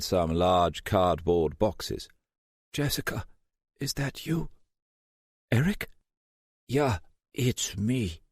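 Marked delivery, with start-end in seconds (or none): 2.7-8.2 a dazed German hacker, words slurring; German accent, drowsy and slurred. A narrator's reading. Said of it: "Eric's German accent sounded slurred".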